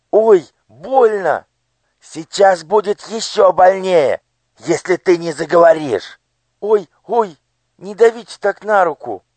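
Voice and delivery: high, frightened cries; a hurt child begging; pained pleading. Acted. Elo hurt, threatened. (жалобная мольба)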